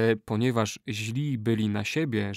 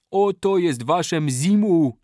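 louder, slow, higher triumphant cry; laughing shout; 6 semitones higher, 6 dB louder, slower than usual. Acted. Kali tossing the drum at the chief, laughing shout. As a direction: throw it down with a mocking laugh. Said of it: "zawołał z wielkim śmiechem".

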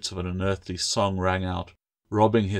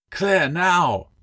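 higher, louder desperate command; urgent shout; 10 semitones higher, 5 dB louder than usual. A narrator's reading. Bound man urging Claire as the knife man closes in. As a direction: cry out, no time left.

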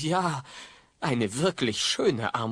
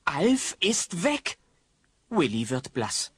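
hushed whisper; 3 semitones higher than usual. A narrator's reading. Narrator whispering to listeners that Alf has gone.

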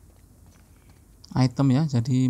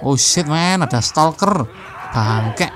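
alarmed gamer; 2 semitones higher, 4 dB louder, slower than usual. Real, not acted. Gamer spots stalker suddenly.

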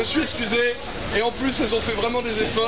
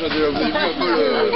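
much lower put-on voice; low character voice; 8 semitones lower, 3 dB louder, faster than usual. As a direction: drop into a deep character. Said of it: "Changement de personnage".

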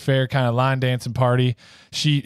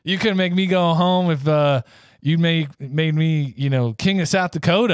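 higher-pitched, insistent declaration; emphatic refusal; 5 semitones higher than usual. Acted. Tyrone refuses to go home, higher and more emphatic. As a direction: refuse with mock-heroic insistence. Retake after "said something different.

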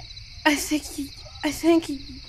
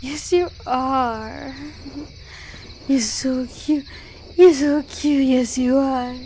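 cooing at pet; 5 dB louder than usual. Acted. Cooing at partner turned cat.

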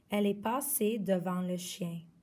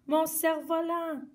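high dismayed cry; 7 semitones higher, 4 dB louder than usual. Acted. Girl crying out after her stolen kite, high cry. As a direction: wail for the lost kite. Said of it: "a crié la fillette".

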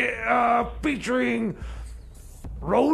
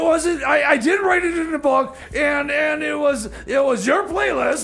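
heated protest; 4 semitones higher than usual. Acted. DJ shouting back at cohost over the song, defensive. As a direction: push back hard, you're being blamed unfairly.

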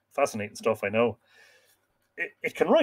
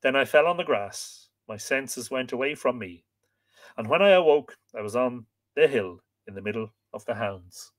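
calm storyteller reading a myth; story narration. A narrator's reading. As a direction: read aloud to listeners, measured.

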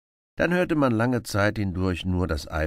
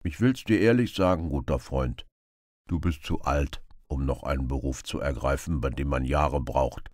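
earnest beggar. Acted. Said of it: "erklärte der Bettler ernsthaft".

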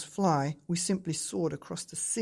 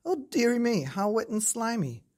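put-on a boy's high, louder yuck of surprise; disgusted small boy; 7 semitones higher, 3 dB louder than usual. A narrator's reading. Boy climbing onto the slimy toad, mock disgusted blimey. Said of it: "I thought".

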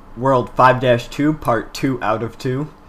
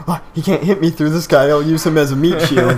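higher, louder smug enemy; 4 semitones higher, 6 dB louder than usual. Retold or imitated. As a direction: voice a cocky enemy hiding behind cover. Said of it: "he's like".

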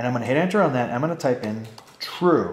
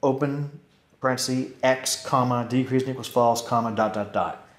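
dictating. Shown as a demonstration. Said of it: "it says sort".

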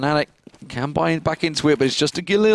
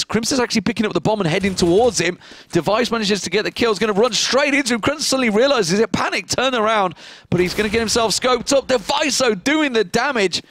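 rising play-by-play excitement; 5 semitones higher than usual. Real, not acted. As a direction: voice climbing higher as the kill unfolds. Play-by-play kill building up.

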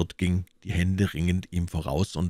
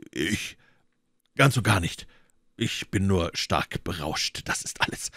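put-on drunk. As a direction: answer haltingly, drink-heavy. Drunk Athos emerges from cellar.

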